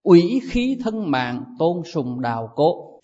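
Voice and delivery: slow, measured quoting of the verse; solemn recitation. Shown as a demonstration. Teacher reciting the ancient verse to monks, slow and solemn. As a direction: intone the old maxim slowly. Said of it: "Đó là cái nghĩa".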